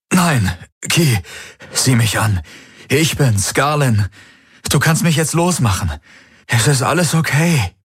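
high, urgent plea to be believed; pleading. A narrator's reading. Captive begging Ki to release him, pleading.

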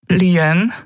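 a nervous call of her name; intimidated. Acted. Mother frightened by strangers, calling timidly. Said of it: "begann ihre Mutter eingeschüchtert".

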